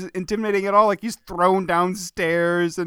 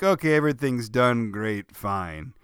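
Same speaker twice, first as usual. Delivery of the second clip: bored shrug; 9 semitones lower, 5 dB quieter than usual. Retold or imitated. Imitating Bosworth's indifference.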